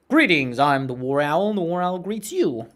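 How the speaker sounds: loud, swooping mock greeting; War Owl. Imitating a YouTuber greeting viewers, hammed-up. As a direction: lightly imitate a hammy online host. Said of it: "You sound like War Owl".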